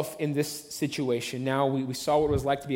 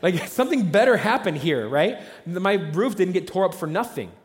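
louder, higher homeowner demanding a reason; indignant homeowner; 4 semitones higher, 5 dB louder than usual. Retold or imitated. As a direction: protest that the roof wasn't wrecked for nothing. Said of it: "You're like".

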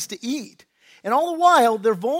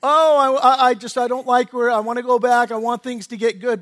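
whiny wanderer; 2 semitones higher, 7 dB louder than usual. Retold or imitated. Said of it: "all of a sudden you're like".

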